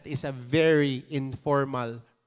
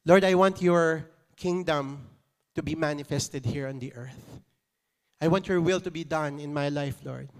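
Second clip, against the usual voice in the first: heartfelt personal prayer. Shown as a demonstration. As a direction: pray it like talking to a father. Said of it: "I'm trying to".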